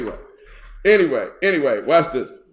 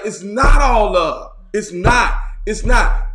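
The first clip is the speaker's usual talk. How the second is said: louder, higher insistent protest; mock protest; 4 semitones higher, 7 dB louder than usual. Bishop retelling how he argued with TV shows, shouting. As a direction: push back loudly against the line. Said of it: "'Cause I be like".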